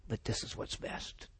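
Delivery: sorrowful whisper. Retold or imitated. David telling his men in a sad whisper. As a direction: breathe it out in grief.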